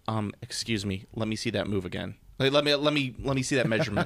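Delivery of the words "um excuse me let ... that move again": softer, fussy rules-lawyer politeness; mock polite nitpick. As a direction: needle the opponent with fake courtesy. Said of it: "and then just being like".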